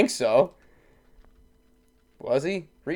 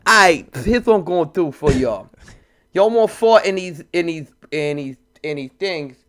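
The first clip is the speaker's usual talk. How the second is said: Russell Simmons impression; 3 semitones higher, 5 dB louder than usual. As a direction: play a smooth music mogul. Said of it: "Russell Simmons impression here with a lisp".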